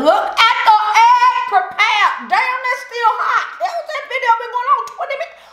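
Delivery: high, giggling talk; laughing. Real, not acted. Woman laughing at her egg while filming, high giggles. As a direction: laugh through the words, high.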